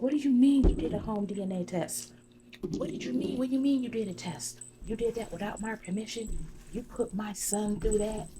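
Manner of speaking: high, indignant retelling of shock. Retold or imitated. Shayla learning Arby tested her son, mock shocked protest. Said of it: "She was shocked".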